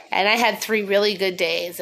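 sniffly, just after crying; sniffling. Real, not acted. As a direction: talk while holding back sniffles. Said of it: "I'm just trying not to sniffle".

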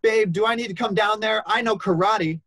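high, loud mock girlfriend holler; imitated yelling down. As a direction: call down from high up, hammed-up and combative. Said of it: "yells down".

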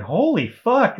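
high, loud burst of alarm; retold shock. Storyteller looking down from the rooftop, shocked outburst. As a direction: blurt it out, stunned, pitch leaping up.

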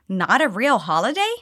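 rising disbelief on holiday; disbelieving question. Shown as a demonstration. Teacher modelling a sister's shocked disbelief, rising tune. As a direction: ask it in shock, voice climbing. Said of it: "paying attention to the intonation".

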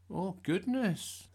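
surprised Mum. A narrator's reading. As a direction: breathe it in wonder. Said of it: "said Mum".

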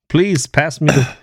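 hammed-up puberty voice, slow and high, cracking upward; mock a boy whose voice is changing; pubescent boy. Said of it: "I was going through puberty".

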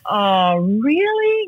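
taken aback. Retold or imitated. Retells deflated reaction to husband.

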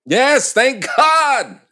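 high, loud, drawn-out relief; relieved outburst. Acted. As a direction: cry out in slow relief. Relieved outburst after record found.

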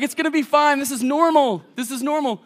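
high, loud calming that eases off at the end; mock a dad insisting all is fine; frantic reassurance. Dad to daughter being wanded, high frantic reassurance.

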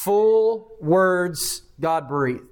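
full words God breathed, each word drawn out very slowly; slow emphatic definition. Shown as a demonstration. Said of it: "that's just a technical way of saying".

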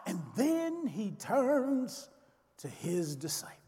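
dropped to a near whisper; hushed whisper. A narrator's reading. Preacher hushing as Jesus turns to his disciples, whispered. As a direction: draw them in with a soft, breathy hush.

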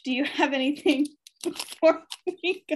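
put-on playful German Russian accent, laughing. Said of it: "Is that your Russian".

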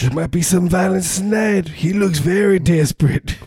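high put-on Cleveland voice; Cleveland accent. Fan sensing violence at the game tonight, high Cleveland accent.

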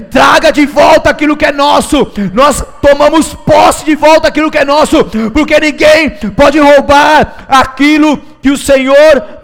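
fiery full-voiced preaching; preaching at full force.

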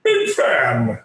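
flat, tongue-tied blurt; starstruck blurt. Retold or imitated. Starstruck fan freezing before his hero, blurting. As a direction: freeze up and blurt two words. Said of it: "And I do this".

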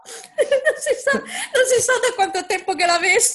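laughing through the words; giggling high and loud. Real, not acted. Laughing at own joke.

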